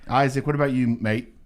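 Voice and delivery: put-on Australian accent. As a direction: try out a casual Aussie accent. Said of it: "working on my Australian accent".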